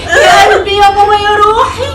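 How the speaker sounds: fake sweetness. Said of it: "بطلي بقى نحنحه بقى".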